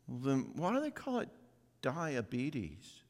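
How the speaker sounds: put-on little girl's voice. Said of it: "And she said".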